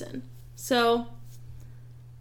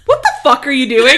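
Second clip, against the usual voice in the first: laughing; 11 dB louder than usual. Retold or imitated. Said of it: "I was like".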